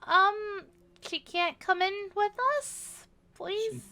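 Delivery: high pleading voice. Acted. Player begging Crow.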